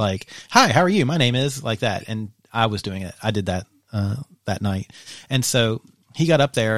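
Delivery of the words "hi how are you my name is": bright friendly greeting. Retold or imitated. Imitating partner breaking the ice.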